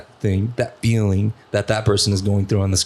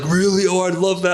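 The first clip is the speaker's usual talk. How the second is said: higher-pitched, mildly acted eager surprise; delighted acceptance; 8 semitones higher than usual. Homeless man accepting a shower offer, imitated delight. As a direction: imitate a man pleasantly taken aback.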